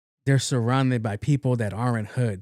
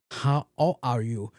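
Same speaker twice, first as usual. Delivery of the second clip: mock Asian accent; slower than usual. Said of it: "this nigga has a strong Asian".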